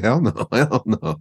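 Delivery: slow, amused mock refusal; chuckling through the retold refusal; laughing refusal.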